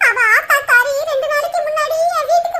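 tearful telling broken by sobs; acted crying lament; sobbing. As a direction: weep as you confide the bad news. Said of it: "மூசு மூசுன்னு அழுகுறீங்க".

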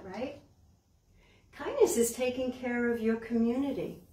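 gentle picture book reading; reading to children. Acted. Librarian reads a picture book to the children.

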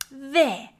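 loud, rising cry of victory; triumphant shout. A narrator's reading. Pig on his toy pile crowing at Trevor, loud shout. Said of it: "shouted Pig".

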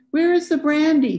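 loud and high, calling from another room; called out. A narrator's reading. Husband calling from the kitchen to his wife, loud call. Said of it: "he called".

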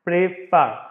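"prefer" said in two separated syllables; split into syllables. Shown as a demonstration. Teacher showing students how it is pronounced, "prefer" syllable by syllable. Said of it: "فدا نشوف من تلفظها".

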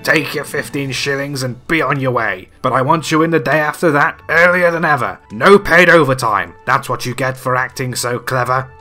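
loud, grumpy boss building to a peak; Scrooge grumbling. A narrator's reading. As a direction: lay down harsh terms to the clerk. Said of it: "grumbled Scrooge".

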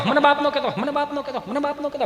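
high repeats dropping away in volume; fading echo. Acted. Father's warning to son bounces back, fading echo. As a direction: repeat it like a voice echoing off walls. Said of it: "પડઘા મળ્યા પડવા".

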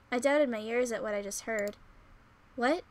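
ordinary talk

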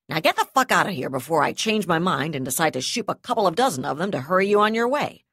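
loud, rising angry dismissal. Acted. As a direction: throw him out with a threat. Yusul dismisses him angrily.

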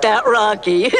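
high dopey voice about to giggle; amused henchman. Acted. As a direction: chuckle through it in a high sidekick voice. Henchman laughing about his boss.

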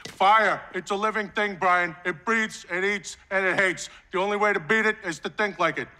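lightly voiced movie-star impression; Robert De Niro. Film fan quoting Backdraft to a colleague, doing an impression. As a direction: play a screen fireman, measured and deliberate. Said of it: "It's a very good impression".

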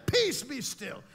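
Peace, be still said firmly and a bit loud; commanding. Acted. Jesus speaking to the storm, firm. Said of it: "He said".

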